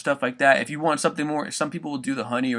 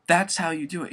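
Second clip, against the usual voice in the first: usual speaking voice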